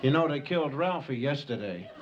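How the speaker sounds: saber-toothed tigers gossiping. Acted. Comic tiger sounding off to another tiger, lightly voiced.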